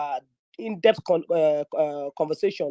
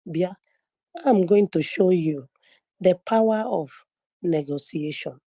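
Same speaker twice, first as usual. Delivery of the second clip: retold whisper; slower than usual. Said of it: "He now whispered to me".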